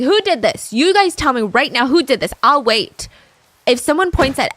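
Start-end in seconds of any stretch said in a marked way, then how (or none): 0.0-3.1 higher-pitched mock outrage, demanding answers; mock teacher scolding. Teacher demanding who threw the paper, imitated angry scolding. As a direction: scold a class without truly screaming. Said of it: "they start screaming".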